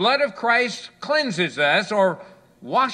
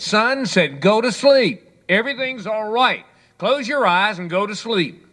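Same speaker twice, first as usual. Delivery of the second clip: exasperated father; 3 semitones higher than usual. Acted. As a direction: lose patience, telling the kid to sleep. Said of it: "getting somewhat exasperated".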